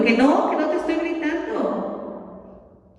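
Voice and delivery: high, heated "no I'm not yelling"; mock yelling denial. Mother snapping back at her child who says she yells, high heated denial. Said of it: "Sí, sí estoy gritando".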